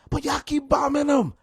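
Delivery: exasperated yell; outraged shout. Real, not acted. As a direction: raise the voice on bombing. Outraged punchline.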